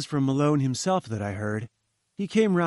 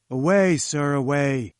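firm, louder and more controlled dismissal; dismissive; 4 dB louder, slower than usual. Acted. Challenger sends Jones away again, firm dismissive command. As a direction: wave him off, done with him. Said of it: "he cried angrily".

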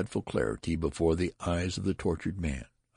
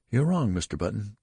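severe; 6 semitones higher, 4 dB louder than usual. A narrator's reading. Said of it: "said the nurse severely".

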